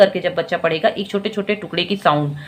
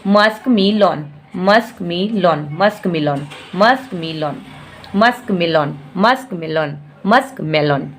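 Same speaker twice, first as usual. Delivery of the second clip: gradually blending; 2 semitones lower than usual. Shown as a demonstration. Teacher speeding up the word bit by bit. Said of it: "फिर धीरे धीरे धीरे उसका real sound में ले आइए".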